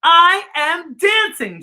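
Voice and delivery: a giraffe thrilled he can finally dance; excited cry. A narrator's reading. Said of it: "Gerald cried".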